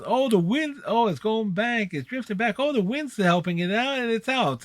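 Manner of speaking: excited, high play-by-play call; home run call. Retold or imitated. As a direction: call the homer as it drifts out. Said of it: "and it says".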